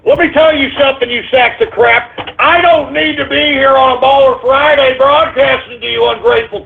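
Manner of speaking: indignant, high-pitched tirade; angry scolding. Real, not acted. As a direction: berate the ungrateful callers, pitch pushed up. Host berates his callers.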